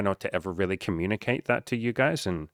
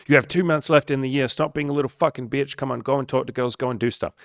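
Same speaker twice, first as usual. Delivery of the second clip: mock yell; 6 semitones higher than usual. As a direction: bark it like his old drill-sergeant self. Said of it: "yelling at you guys and girls".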